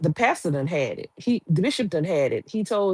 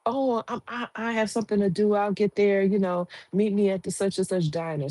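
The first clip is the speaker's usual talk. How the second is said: playing innocent; 3 semitones higher than usual. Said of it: "she playing".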